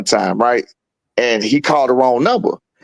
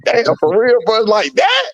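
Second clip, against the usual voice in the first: impressed surprise; 6 semitones higher, slower than usual. Retold or imitated. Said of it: "And I was like".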